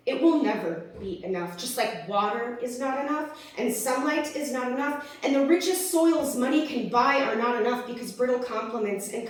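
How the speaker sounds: measured, rhythmic slam delivery; poem performed with dramatic pauses; spoken-word poem. Acted. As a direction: recite it with deliberate weight on each phrase. Recites own slam poem.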